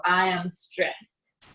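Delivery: said slowly, word by word, as a model; teacher modelling a sentence for the class, spoken slowly; slow example sentence. Shown as a demonstration.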